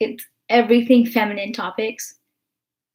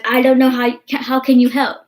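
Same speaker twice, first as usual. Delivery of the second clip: exasperated emphasis; 3 semitones higher, 7 dB louder than usual. Retold or imitated. Stressing how harmless it was.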